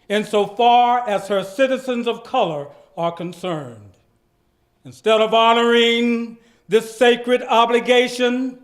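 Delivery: dramatic reading. Shown as a demonstration. Reading Martin Luther King's speech aloud with full pathos. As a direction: deliver the speech with pathos and gravity. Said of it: "I would like to capture some of the pathos".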